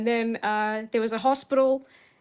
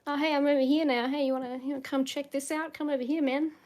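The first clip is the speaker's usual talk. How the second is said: lightly voiced raven, higher and fast; a hint of a sly, friendly bird luring you over; cute little raven; 5 semitones higher, faster than usual. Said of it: "cute, cute little raven".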